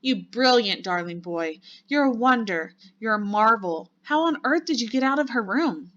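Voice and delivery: high, loud gushing admiration; delighted praise. A narrator's reading. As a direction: marvel at the child, punching each compliment. Grandmother praises the returning child.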